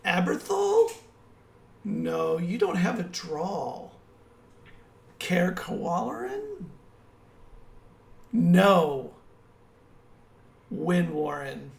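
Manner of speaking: put-on accent-guessing captive woman. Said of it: "And then she goes".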